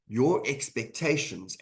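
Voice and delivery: "your" leaned on, words slowed down; stress on your. Shown as a demonstration. Coach stressing to leaders whose expectations count, slow emphatic "your". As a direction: hit "your" in "your expectations" and take it slowly. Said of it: "I want to emphasize the word your expectations".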